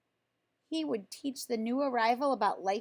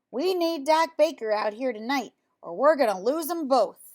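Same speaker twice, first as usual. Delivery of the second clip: troubled farmer; 6 dB louder than usual. Acted. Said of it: "Otis woke to the sound of troubled words".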